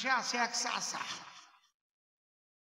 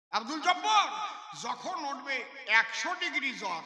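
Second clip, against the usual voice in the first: calling out; 3 semitones higher than usual. Acted. Doctor calls patient emphatically.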